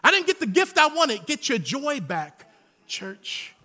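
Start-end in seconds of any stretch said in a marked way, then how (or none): 1.2-3.5 soft closing call. Real, not acted. Closing altar call, repeated.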